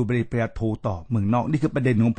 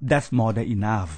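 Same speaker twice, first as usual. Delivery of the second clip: firm dismissal; 3 semitones lower, much slower than usual. Retold or imitated. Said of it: "ผมบอกว่า".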